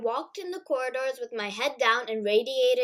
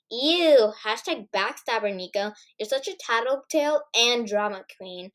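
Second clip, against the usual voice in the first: disgusted sneer. Acted. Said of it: "Sadie retched".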